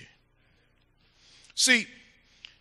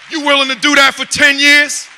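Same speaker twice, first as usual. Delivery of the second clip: shouted, slowing challenge to the crowd; preaching shout; 4 semitones higher, 7 dB louder than usual. Real, not acted. Preacher shouting a challenge at the congregation. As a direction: thunder the question at them.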